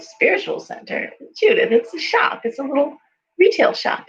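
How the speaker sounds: high-pitched, disbelieving protest; acted-out baffled objection; incredulous. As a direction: question it in disbelief, pitch jumping up. Acted incredulous reply to Judith.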